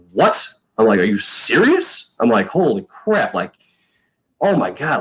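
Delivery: high, rising disbelief at the news; stunned disbelief. Retold or imitated. Rookie hearing he made the team, stunned disbelief. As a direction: blurt it out, pitch jumping up in shock. Learning the other punter was cut.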